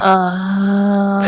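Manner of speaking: soft airy sigh; breathy uh. Shown as a demonstration. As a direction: let the sound out on a breath. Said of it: "Yes, that's it".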